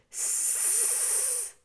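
long, soft hiss; drawn-out "sss". A narrator's reading. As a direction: rat hissing in disapproval. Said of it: "hissed the other rats".

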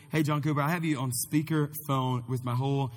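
loud, clear phone-check voice; projecting into speakerphone. Real, not acted. Talking loudly into speakerphone.

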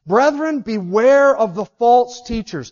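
high, slow, tearful plea as Paul; beware, drawn out as a weeping apostle; Paul welling up. Retold or imitated. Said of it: "and starting to well up".

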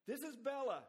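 high, loud cry, "Bela" leaned on both times; excited cry. Retold or imitated. Husband hearing his wife on the phone, crying out high and loud. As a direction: shout his own name into the phone, overjoyed. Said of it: "then he cried suddenly".

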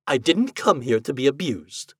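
understated cold rebuff; coldly. Acted. Ghost rebuffs the shouting husband, mildly cold. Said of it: "said the ghost coldly".

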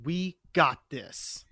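slow determined. Acted. Bracing for the fight.

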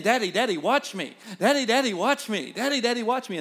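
lightly voiced child nagging for attention; insistent little daughter. Daughter begging her dad to watch, lightly voiced insistent child. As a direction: repeat it in a mild, eager child's plea. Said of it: "she kept saying".

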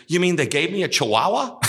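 high, loud, laughing disbelief; shocked realization. A narrator's reading. Blind-dog pretender realizes his dog is a Chihuahua, high laughing shock. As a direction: crack up while asking in disbelief. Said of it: "And the guy says".

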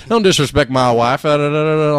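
mock Southern husband; a touch of Southern accent, defending his wife. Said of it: "He did have a Southern accent".

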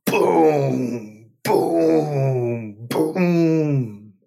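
drawn-out imitated knocking, boom boom boom; booming knock sound. A narrator's reading. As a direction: knock on the door with your voice. Deafening knock on the door.

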